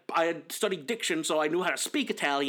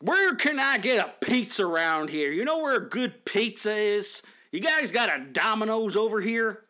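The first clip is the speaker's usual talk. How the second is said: mock clueless tourist; 4 semitones higher than usual. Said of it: "that sort of nonsense".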